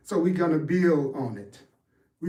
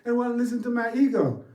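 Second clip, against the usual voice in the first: imitating a confused seeker; 7 semitones higher, faster than usual. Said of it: "Like, people go".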